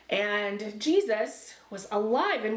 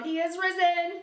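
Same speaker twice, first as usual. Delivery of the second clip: loud call; 5 semitones higher than usual. Pretend. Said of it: "let's do it really loud".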